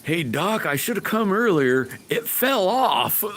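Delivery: high, giggling mock patient voice; laughing patient. Patient jokes to the doctor, laughing through it. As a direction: giggle through a silly confession to the doc. Joking patient talking to dentist.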